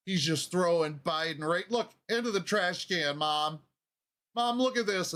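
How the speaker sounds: high-pitched excited calling to Mom; excited tattling. Acted. Viewer showing Mom the trash can throw, excited tattling. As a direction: call Mom over, mock-urgent and high.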